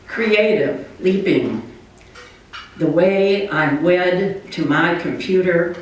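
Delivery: slow, measured poem recital with long pauses; unhurried spoken verse, spaced phrase by phrase; poetry reading. Acted. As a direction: read your poem line by line, letting each image land. Reads own poem aloud.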